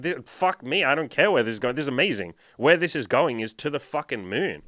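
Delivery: mock-ecstatic partner's outburst; thrilled. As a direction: play her swept-up excitement, swearing happily. Acting out a thrilled girlfriend's reaction.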